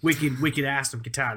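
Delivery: mock Massachusetts accent on local slang. Podcaster joking to his co-host about guitar, in mock Massachusetts accent. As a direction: lay on a playful Massachusetts accent. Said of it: "Massachusetts accent in front of".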